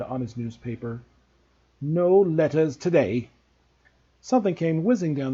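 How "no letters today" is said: slow, smug uncle voice; smug happy uncle. A narrator's reading. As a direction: gloat slowly, pleased with himself. Vernon continues, same voice.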